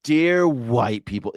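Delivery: slow, drawn-out mock address; a hint of sanctimonious drawl; mock earnest tone. Shown as a demonstration. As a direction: imitate the preachy opener. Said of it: "just the tone of voice".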